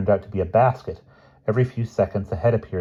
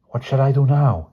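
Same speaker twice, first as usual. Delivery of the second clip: calling out; 7 semitones higher, 6 dB louder than usual. A narrator's reading. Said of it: "he called".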